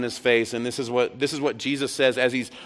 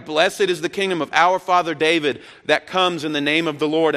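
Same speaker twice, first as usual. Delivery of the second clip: higher, louder crowd proclamation; retold yell back; 4 semitones higher, 4 dB louder than usual. Preacher voicing pilgrims answering the city, raised yell. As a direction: call it back down the mountain. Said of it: "they would yell back down".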